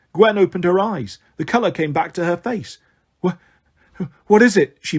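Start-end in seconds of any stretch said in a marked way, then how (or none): 3.2-4.8 startled confusion. A narrator's reading. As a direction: stammer awake in confusion. Revived girl, startled and confused.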